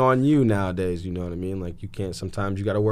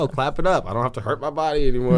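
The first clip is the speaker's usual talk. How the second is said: mock celebration; 6 semitones higher, 5 dB louder than usual.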